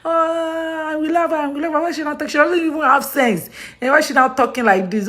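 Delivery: high-pitched imitation of complaining viewers; put-on high whine of a mock complainer; mock critical viewers. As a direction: mimic fans griping, pitched well above your own voice. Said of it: "makes you react like".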